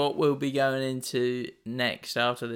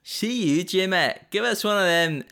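higher, louder put-on Scottish accent; 6 semitones higher, 4 dB louder than usual. Shown as a demonstration. Contestant showing off for laughing host on request, hammed-up Scottish accent. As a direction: call it out like a cartoon Scot. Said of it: "say blorange in a Scottish accent".

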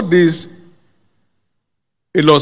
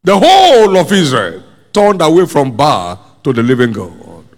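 forceful preaching; 3 semitones higher, 3 dB louder than usual. Real, not acted. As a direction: preach it out, stretching the key words.

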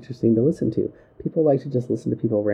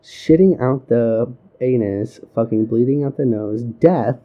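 flat drug ad disclaimer read; boring droning parody; slower than usual. Pretend. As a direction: drone the side effects in a flat voice. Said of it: "such a low monotone voice".

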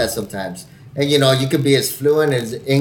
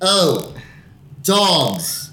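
Brad Pitt; 5 semitones higher than usual. Acted. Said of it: "you got all fucking Brad Pitt".

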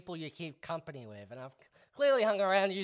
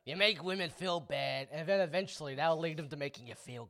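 hint of an Italian-New York sleaze accent; Italian sleazy guy; 3 dB quieter than usual. Host mimics a pickup artist for his friend, sleazy Italian accent. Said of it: "It's always an Italian".

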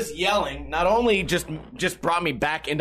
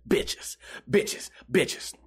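breathy repeated whisper of bitches; 5 semitones lower, 5 dB quieter, much slower than usual. Acted. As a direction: whisper it like a secret chant.

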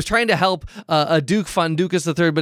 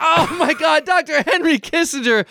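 surprised; 8 semitones higher than usual. Acted. Shocked by the prank.

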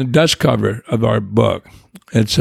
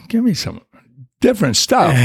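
jumps much higher in pitch, a lightly voiced plea for something new; pleading to be told anything besides the book, much higher; mock exasperated plea; 9 semitones higher than usual. Telling his sponsor he wants other answers, in a mildly mock high plea. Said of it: "I'm going".

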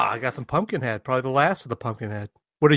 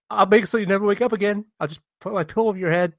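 mock exasperated threat; 8 semitones higher, faster than usual. Imagined threat to snoozing roommate.

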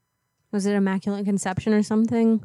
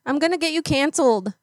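put-on tough-girl threat; 5 semitones higher than usual. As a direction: talk trash like a street fighter. Caller yells after him.

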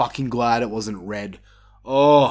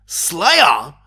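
puzzled, louder "Slayer?" rising; surprised question; 3 semitones higher, 5 dB louder than usual. Retold or imitated. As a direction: catch the first notes, unsure. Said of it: "I'm like".

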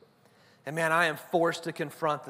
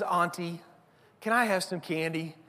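lightly voiced cute little girl; a hint of a sweetly pleading child; super cute voice. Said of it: "in this super cute voice".

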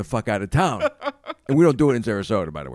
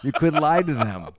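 laughing; 4 semitones higher, 3 dB louder than usual. Real, not acted. Laughing pitch.

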